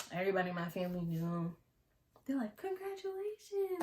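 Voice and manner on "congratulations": mock congratulations. Family voiced congratulating.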